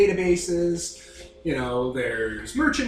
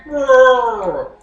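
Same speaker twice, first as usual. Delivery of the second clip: bear roar; 7 semitones higher, 11 dB louder than usual. Acted. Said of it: "pointing to the sky".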